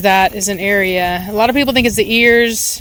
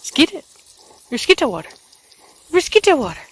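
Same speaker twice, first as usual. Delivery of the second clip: playful sing-song; 6 semitones higher, faster than usual. Acted. Playful spraying chant.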